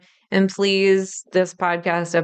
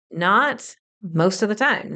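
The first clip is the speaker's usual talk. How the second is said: "Not" set apart, then a slower finish; stress on Not. Real, not acted. Teacher clarifying for listeners, firm stress on "Not". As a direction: lean on "Not" and take your time. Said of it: "I'm saying not".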